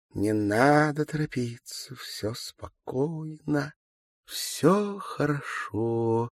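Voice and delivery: slow, soothing hush, drawn out; slow it right down and calm yourself; soothing self-calming. Acted. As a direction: stretch every word, soothing yourself. Маловец calming herself down.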